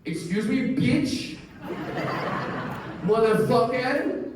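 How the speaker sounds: high, slow indignant mom firing insults; high, slow, outraged mother spitting insults; spicy Persian mom. Retold or imitated. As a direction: throw each cuss like a fed-up mother. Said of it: "my mom is a spicy Persian woman".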